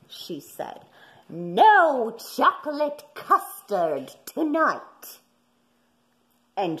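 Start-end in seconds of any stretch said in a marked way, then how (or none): 1.3-5.2 displeased mother. A narrator's reading. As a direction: scold the puppies like a cross mother. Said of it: "their mother was greatly displeased".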